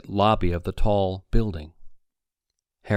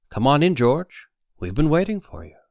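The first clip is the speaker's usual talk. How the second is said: mock welcome, higher and louder; 7 semitones higher, 5 dB louder than usual. A narrator's reading. Villain welcomes Weber.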